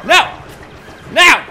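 high shrieks mixed with laughter; screaming excitedly. Real, not acted. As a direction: squeal through the chaos. Close fight, laughing screams.

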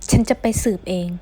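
loud, insistent retort. Acted. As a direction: push back firmly and loudly. Acted quarrel, insists on investigating. (เสียงดัง ยืนกราน)

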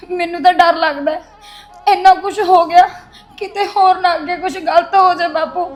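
breaking down in sobs; crying. Acted. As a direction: sob it out, overwhelmed. She breaks down, frightened. (ਹੁਬਕੀਆਂ ਭਰਦੀ)

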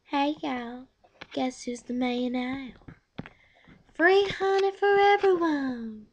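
mayor bee impression. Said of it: "the part where it's the mayor bee".

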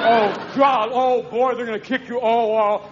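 lightly voiced dog relishing trouble; gloating dog. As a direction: raise the pitch as an eager dog. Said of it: "your dog's over here going".

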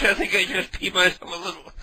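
words bubbling with laughter; laughing. Real, not acted. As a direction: giggle through the confession. Laughing confession.

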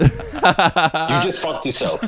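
slow, drawn-out taunt through laughter; laughing taunt. Real, not acted. Guest taunting friend who told the story wrong, laughing. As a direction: gloat slowly while laughing.

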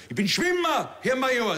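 höher, zackig gemeldet; laut wie beim Appell; strammer Rekrut. Retold or imitated. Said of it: "Ich sag". (Rekrut meldet sich eifrig)

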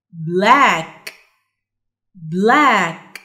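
"Black" with long low vowel and released final k; model pronunciation. Shown as a demonstration. Teacher giving examples of C K, careful drawn-out word. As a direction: draw out "Black", then click the k. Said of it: "صوتهم بيبقى عامل كده".

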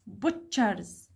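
"Butchers" low, with stress on BUT; low-pitched "Butchers", weight on BUT; stressed first syllable. Shown as a demonstration.

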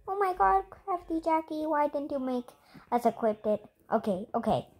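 soft grumble to oneself; quiet, half-hearted grumbling; mumbled complaint. Real, not acted. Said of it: "I'm just mumbling".

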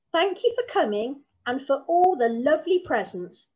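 brisk, polite granny shooing guests out, a touch fast at the end; firm hostess seeing visitors off; bossy granny. Acted. Granny politely dismissing the wise men, brisk and firm.

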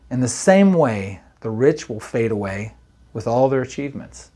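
measured, formal reading of the verse; scripture reading. Acted. Pastor reading James to the church, measured scripture voice. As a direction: read the Bible passage to the congregation. Reads the James passage aloud.

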